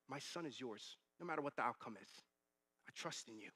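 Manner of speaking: soft, low prayer; sincere surrender. Retold or imitated. Father giving his son to the Lord, quiet surrender.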